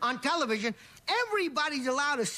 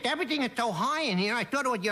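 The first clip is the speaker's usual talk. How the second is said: quick punchline; faster than usual. Acted. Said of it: "he talk like this?".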